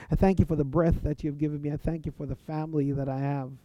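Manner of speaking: earnest prayer voice, speaking straight to God; a preacher showing how he prays; demo prayer. Shown as a demonstration. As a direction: pray it out as a sample, sincerely. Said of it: "So my prayer will go something like this".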